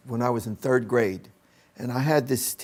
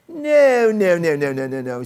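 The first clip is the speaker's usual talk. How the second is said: starts as a much higher, louder cry and fades down to plain; scolding no's; 5 semitones higher, 4 dB louder than usual. Retold or imitated. Teacher stopping the boy counting on fingers, shouting then fading. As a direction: hammer the first no hard, then let it run down. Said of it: "because she went".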